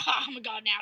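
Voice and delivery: mock whisper; wizard whisper. The wizard whispers in mock alarm. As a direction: breathe it out secretly. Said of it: "this wizard's like".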